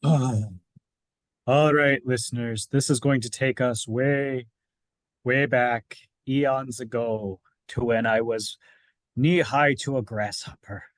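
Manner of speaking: lightly voiced old man storyteller; a hint of an old-timer spinning a yarn. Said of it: "does the old man voice help?".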